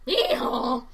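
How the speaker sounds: hee-haw donkey bray; Jack Hole jingle imitation. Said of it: "that Jack Hole thing cop-, pops up".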